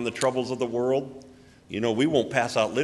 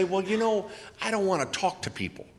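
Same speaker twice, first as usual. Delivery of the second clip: reluctant churchgoer; 9 semitones higher than usual. Retold or imitated. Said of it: "you say".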